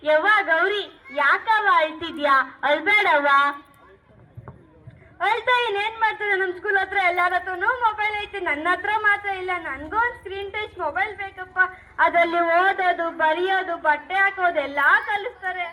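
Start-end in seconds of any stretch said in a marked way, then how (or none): 5.3-15.7 a hint of a child whining for a phone; sulking daughter. Daughter role begging for phone.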